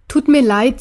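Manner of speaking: a touch of a sigh, lightly voiced; sighing apology. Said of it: "seufzte er".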